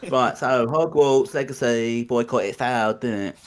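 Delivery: put-on slow bubbly English Valley Girl; English Valley Girl accent, drawn out. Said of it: "Why is it like an English Valley Girl accent?".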